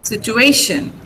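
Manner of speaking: Situation said situ-A-tion; stress on A. Shown as a demonstration. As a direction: lean on the A of Situation. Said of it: "A is stressed".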